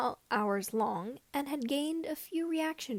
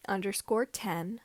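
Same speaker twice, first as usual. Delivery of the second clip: plain reading voice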